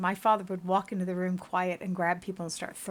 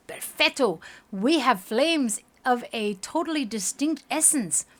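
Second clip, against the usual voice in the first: delighted exclamation; 4 semitones higher, 4 dB louder than usual. Acted. Researcher delighted at result.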